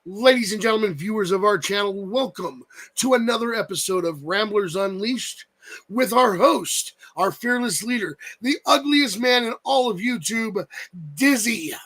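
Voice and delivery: drawn-out, mock-grand podcast introduction; big welcome to the audience; show announcer. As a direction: hype up the host like a ring announcer.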